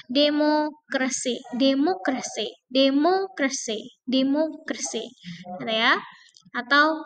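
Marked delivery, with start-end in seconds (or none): 0.1-5.1 demokrasi, MO stressed. Shown as a demonstration. Teacher drilling demokrasi stress. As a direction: hit MO. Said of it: "inilah ketiga dari belakang".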